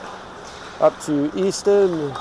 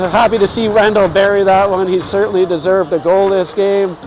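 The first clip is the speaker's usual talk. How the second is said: happy excited; 3 semitones higher, 3 dB louder than usual. Real, not acted. Right after goal call.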